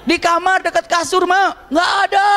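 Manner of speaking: family shouting back and forth indoors. Retold or imitated. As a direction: yell like in a forest. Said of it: "teriak-teriak udah kayak di hutan".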